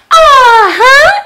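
high, loud laughing uh-huh. Real, not acted. Showing viewers her pink lemonade, high laughing uh-huh. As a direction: giggle it out, pleased with yourself.

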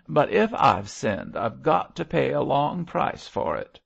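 high, loud tearful outpouring; sobbing. A narrator's reading. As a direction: wail through sobs in dialect. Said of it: "he sobbed".

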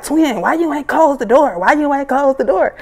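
mimicking boyfriend. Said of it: "He like".

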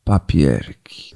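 very low, drawn-out papierki; deep slow voice. Pretend. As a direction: drop the voice way down, slowly. Jingle echo of show name.

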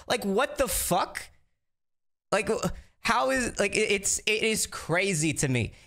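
furious disbelief at what he's hearing; real exasperation. Real, not acted. Ranting about the circle's behaviour.

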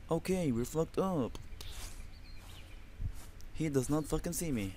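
tense hushed whisper. Real, not acted. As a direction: whisper so the zombie won't hear. Hiding from a zombie.

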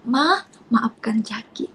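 slow, half-whispered plea; soft child's apology. Retold or imitated. Child hugging mother to apologise, softly. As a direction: murmur it tenderly, as a child sorry.

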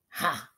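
short mocking ha; scornful snort-laugh. A narrator's reading. Headmistress snorting at the teacher's idea. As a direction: snort a scoffing ha. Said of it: "snorted Miss Trunchbull".

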